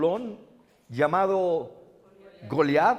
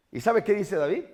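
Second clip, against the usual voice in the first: ordinary talk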